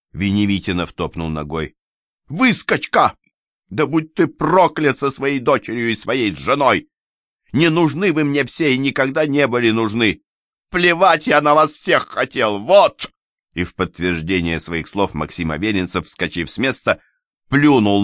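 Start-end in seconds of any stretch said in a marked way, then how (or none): 2.3-13.1 angry tirade. Acted. Son-in-law curses the family.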